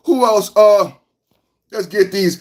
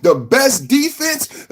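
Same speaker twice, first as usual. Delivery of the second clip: drawn-out prompt; 4 semitones higher, slower than usual. Shown as a demonstration. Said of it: "can somebody say it in the chat".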